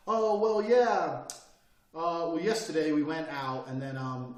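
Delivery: lightly voiced rambling speaker full of ums; mocking a hesitant speaker. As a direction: parody someone who can't get to the point. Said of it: "listen to people".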